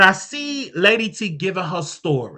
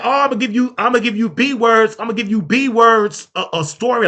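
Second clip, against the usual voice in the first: mocking quote; 2 semitones higher than usual. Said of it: "That's what Sean said in the text".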